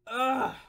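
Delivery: groan. Real, not acted. Groans after doing the impression.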